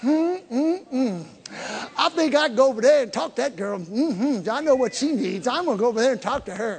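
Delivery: soft, scheming, inward voice. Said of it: "thinking going on in your mind like".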